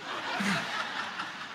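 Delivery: soft, breathless wheezing laugh; winded laugh. Real, not acted. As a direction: puff out a quiet laugh, out of breath. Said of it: "I'm out of breath".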